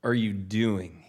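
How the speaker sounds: slow, stretched-out scolding question; retold stern father. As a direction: imitate a dad's slow disbelief. Father challenging son's driving, retold.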